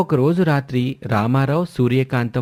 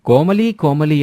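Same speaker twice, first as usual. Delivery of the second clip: calling out loudly, pitched up; 5 semitones higher, 4 dB louder, slower than usual. Acted. Mother-in-law calls daughter-in-law at night, loud call. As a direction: shout her name across the house. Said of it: "అంటూ గట్టిగా సూర్యకాంతం కోమలిని పిలిచింది".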